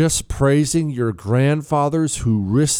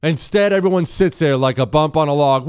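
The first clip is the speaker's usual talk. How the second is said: ordinary talk, nothing marked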